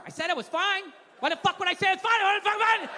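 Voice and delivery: husband snapping at his wife; mock defensive anger. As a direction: bite back, insisting you're fine. Insisting he is fine, angrily.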